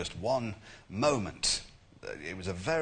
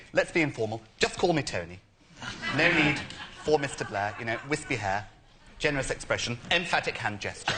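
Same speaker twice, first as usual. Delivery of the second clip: Tony Blair impression; 3 semitones higher, 4 dB louder than usual. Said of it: "Tony Blair was saying".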